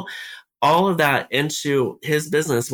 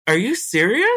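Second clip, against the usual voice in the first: crying; 10 semitones higher than usual. Real, not acted. Retelling call, voice cracking, crying.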